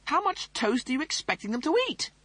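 high, snooty officer voice; pompous Rimmer voice. Acted. Rimmer complains.

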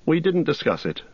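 talking through a mouthful of food; words round a bite of breakfast; mouth full. A narrator's reading. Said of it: "said Frodo with his mouth full".

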